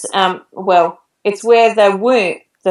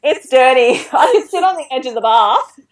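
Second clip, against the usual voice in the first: higher, amused retold objection; mock protest; 5 semitones higher than usual. Patient refusing the dirty bathroom floor, amused mock protest. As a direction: imitate yourself haggling, pitched up.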